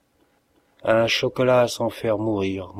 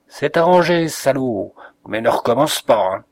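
scolding; 5 dB louder than usual. Acted. Narrator scolding Morin.

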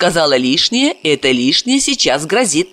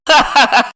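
laughing; 8 semitones higher than usual. Acted. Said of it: "Марина расхохоталась".

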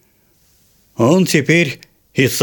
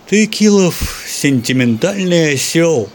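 cooing; 5 semitones higher, slower than usual. Acted. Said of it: "проворковал Севрюгин".

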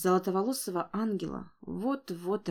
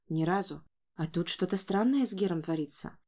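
usual speaking voice

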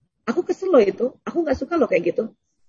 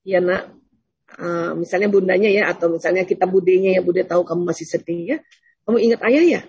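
gentle consoling; 5 semitones lower than usual. Acted. Voices aunt consoling grieving child.

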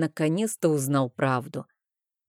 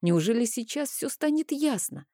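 usual speaking voice

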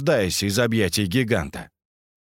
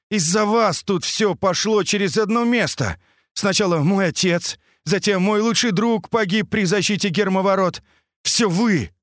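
much higher, pained accusing voice; bitter accusation; 9 semitones higher than usual. A narrator's reading. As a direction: blame them for your father's death. Semyon blames them, angry outburst. (надрывно, обвиняюще)

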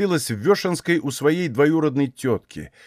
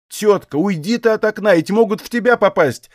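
Aksinya begging, higher and urgent; pleading; 7 semitones higher, 3 dB louder than usual. A narrator's reading. Aksinya pleads with her aunt away from the window. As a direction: beg the old woman to leave the window. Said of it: "просила Аксинья".

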